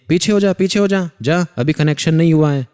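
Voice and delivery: high, loud retold shout to get back. Guru shouting at the devotee to step back, loud shout. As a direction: yell it like a guru shooing someone away. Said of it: "तेज चिल्ला करके बोलते हैं".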